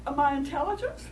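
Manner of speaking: hammed-up insulted coyote; indignant coyote. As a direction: bristle at being called a liar. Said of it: "he says".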